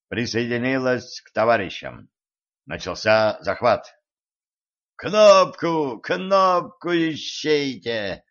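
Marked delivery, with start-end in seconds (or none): 5.0-8.2 raging. A narrator's reading. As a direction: rage at the pile-up. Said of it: "бесновался".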